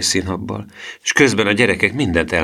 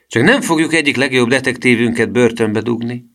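raised-pitch incredulous question; exclaimed; 6 semitones higher, 4 dB louder than usual. A narrator's reading. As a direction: exclaim it as if the idea were absurd. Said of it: "kiáltotta a felügyelő". (felkiáltva, hitetlenkedve)

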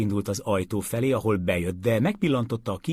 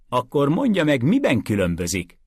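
sharp, louder challenge; attacking demand; 7 semitones higher, 5 dB louder than usual. A narrator's reading. Calender snaps at Mason with a raised, challenging voice. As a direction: round on the lawyer with a raised voice. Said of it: "támadt rá Calender".

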